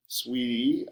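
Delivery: mock sing-song echo on "Sweetie". A narrator's reading. A kid mimics his friend's mom's "Sweetie", teasing sing-song. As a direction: lilt "Sweetie" upward, teasing. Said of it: "I echo in a sing-song tone".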